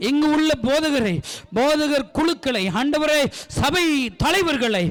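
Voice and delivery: fervent prayer and blessing over the church; pastor's final blessing; closing prayer. Acted. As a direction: pray it over them.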